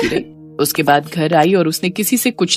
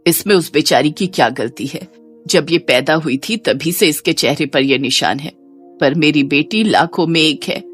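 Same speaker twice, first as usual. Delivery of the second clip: slightly subdued, lower voice of a pleading mother; protective mother; 4 semitones lower, 4 dB quieter than usual. Acted. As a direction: gently scold them in your daughter's defence. Mother defends her daughter. (बेटी का पक्ष लेती माँ की धीमी आवाज़)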